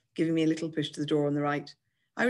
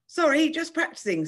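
high, breezy mock sorry; airy singsong excuse; insincere apology; 12 semitones higher, 4 dB louder than usual. A narrator's reading. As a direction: toss off an apology without meaning it.

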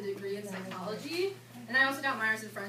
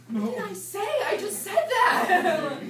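laughing protest; 10 semitones higher, 13 dB louder, slower than usual. Retold or imitated. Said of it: "And I'm like".

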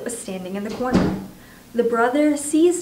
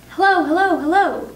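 high, loud parrot call; 8 semitones higher, 7 dB louder than usual. A narrator's reading. Parrot stuck up the chimney, calling out high. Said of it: "the bird called down to her".

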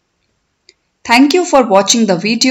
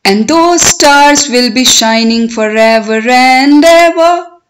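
poem recitation. Shown as a demonstration. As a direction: recite it for learners, stretching the words, lifting line endings. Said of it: "I will recite line by line".

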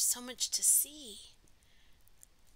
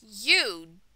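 louder, lilting storybook reading; story read-aloud; 10 dB louder, slower than usual. A narrator's reading. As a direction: read it out to children, slowing for the refrain. Reading picture book aloud to children.

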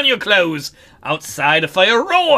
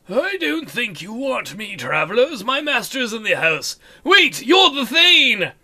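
thrall voice; 3 semitones higher than usual. Acted. Thrall voiced in game dialogue.

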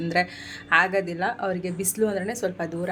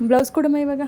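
higher, louder insistent request; calling out; 7 semitones higher, 7 dB louder, faster than usual. Real, not acted. Daughter pressing mum for the blouse now, calling out. Asking mother again for the blouse.

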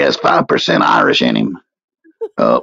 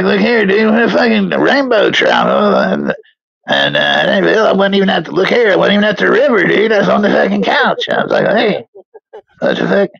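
higher-pitched, lightly put-on Irish accent; comic Irish-accented impression, pitched up; 5 semitones higher than usual. The speaker rambling about a rainbow trout and stolen pot of gold, mock Irish accent. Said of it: "the speaker with an Irish accent".

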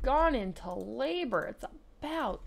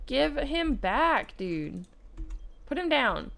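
scolding call; 4 semitones higher, 4 dB louder, slower than usual. Acted. Scolding the Sims family.

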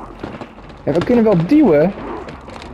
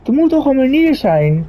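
exasperated; 9 semitones higher than usual. Real, not acted. Exasperated plea.

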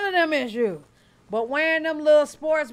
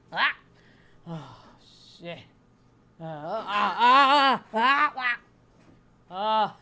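mock moans of pain in short bursts; broken, pretend agony noises; acted pain groans; 3 semitones lower, slower than usual. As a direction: groan as if it really hurts, hammed up. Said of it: "if I go through some pain like that".

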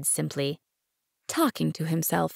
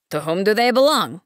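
snappish and a bit louder; peevish retort; 3 semitones higher, 6 dB louder than usual. Acted. Businessman snapping back at the little prince, peevish. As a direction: throw the question back, irritated. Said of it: "retorted peevishly".

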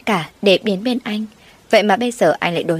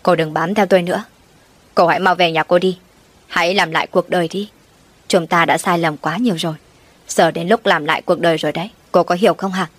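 mild shout. Acted. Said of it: "rồi quát to".

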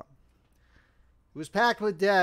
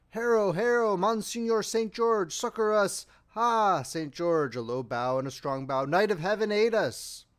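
loud, high rallying shouts; battle cries; 5 semitones higher, 5 dB louder than usual. A narrator's reading. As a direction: shout like a host calling on its saint. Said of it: "thousands shouting".

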